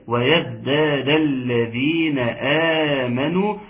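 slow, measured recitation; Quran recitation. Shown as a demonstration. Teacher reads the next words for questioning, slow tajweed recitation. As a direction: recite with the long vowels held.

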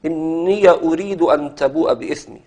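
"إني" said inni-ya, with an open a before "أريد"; fatha on ya. Shown as a demonstration. Teacher showing students how Nafi' reads the verse, fatha on ya. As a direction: open the ya of "إني" into a short ya sound. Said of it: "افتح هذه المواضع العشرة كلها".

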